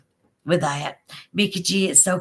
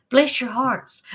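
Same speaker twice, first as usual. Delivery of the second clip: sweet blessing; 5 semitones higher, slower than usual. Shown as a demonstration. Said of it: "I mean it sweet".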